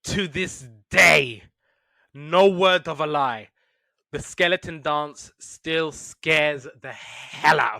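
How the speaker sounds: slow, weighty, drawn-out words; dramatic emphasis. Real, not acted. Podcaster confesses an old cartoon still scares them, dramatic emphasis. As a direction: stretch each phrase out for effect.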